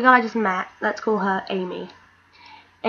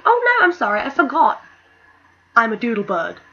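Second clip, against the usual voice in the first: sarcastic mock apology; 2 semitones higher, 4 dB louder than usual. Sarcastic reply to are you sure.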